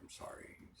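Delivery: hushed unvoiced whisper. Husband recalling his reply to wife's text, whispered. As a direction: say it under your breath.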